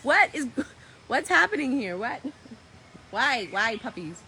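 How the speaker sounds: loud, high bewilderment; baffled exclamation. Real, not acted. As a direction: demand to know what is going on. Reacting to puppies' antics.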